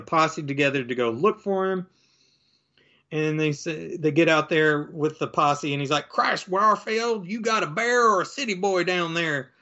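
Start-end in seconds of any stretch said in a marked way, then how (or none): 6.1-9.5 gruff lawman call. Retold or imitated. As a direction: hail him down the slope like a sheriff. Posse member calling to deputy.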